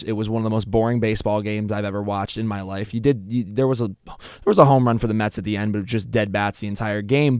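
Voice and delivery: normal talking voice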